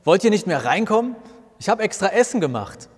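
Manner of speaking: loud, high shout through the car window; yelling from outside. A narrator's reading. Martin shouts from outside the car to come in. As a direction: call them in, raising your voice and pitch. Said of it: "brüllt von draußen".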